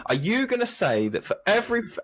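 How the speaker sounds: high, put-on Cockney challenge; mock Cockney devil's advocate, pitched high; Cockney accent. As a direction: argue it like a cheeky Cockney. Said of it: "I don't know why this person's got an accent".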